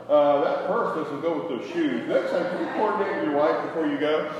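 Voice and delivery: teasing, laughing through the words; mocking with a laugh. Preacher ribbing husbands about purses, laughing mock scold. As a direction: poke fun at the husband, chuckling. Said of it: "I just make fun of it".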